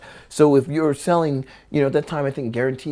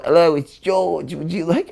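George; 4 semitones higher than usual. Acted. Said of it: "I'm gonna change my voice".

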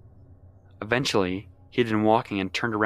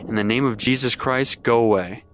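mock command; 3 dB louder than usual. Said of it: "says something to the effect of".

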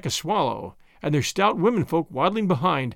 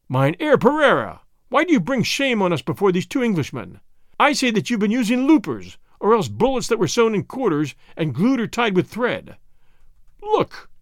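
great angry voice; 3 semitones higher than usual. Acted. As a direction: cry it out in anger at the cheat. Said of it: "cried in a great voice".

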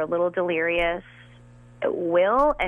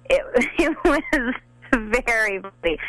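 laughing; 4 semitones higher than usual. Real, not acted. Laughing while recalling.

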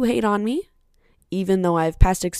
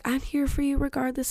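mocking fake friend; 7 semitones higher, 4 dB quieter than usual. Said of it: "some people will be like".

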